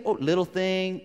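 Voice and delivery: lightly brushing it off; dismissive. Retold or imitated. Preacher voicing the listener's excuse, mildly dismissive. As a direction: imitate someone shrugging off LITTLE THING.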